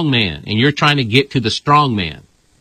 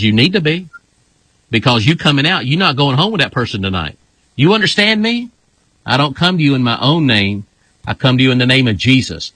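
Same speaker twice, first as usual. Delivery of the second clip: commanding rebuke. Retold or imitated. Retold rebuke of the strong man.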